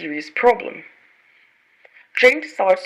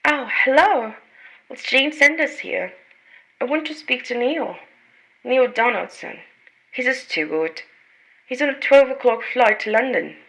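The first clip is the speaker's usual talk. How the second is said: urgent worried caller; 5 semitones higher than usual. Acted. Jane urgently asks for Neil.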